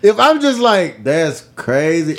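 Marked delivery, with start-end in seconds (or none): 1.0-2.2 slow, drawn-out THAT'S CRAZY; mock uninterested brush-off; not caring. Shown as a demonstration. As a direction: let it drag like you have nothing to add. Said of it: "I'm not giving a fuck".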